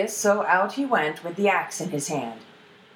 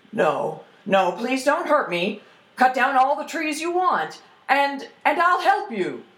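pleading, rising higher as it goes; frightened pleading; 6 semitones higher, 3 dB louder than usual. Acted. Troll begs the ash lad not to hurt him, frightened. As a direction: beg for mercy as a scared troll.

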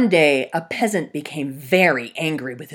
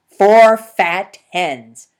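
slow, loud, deliberate offer; emphatic offer; 2 semitones higher, 14 dB louder, much slower than usual. Acted. Peasant offering the fox four fat hens, slow and loud. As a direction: spell out the price slowly.

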